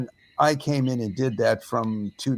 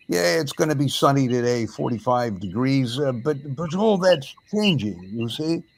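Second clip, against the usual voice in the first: put-on a light, half-hearted English accent; lightly sketch the British weatherman. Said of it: "And I did it in an English accent, probably better than I just did".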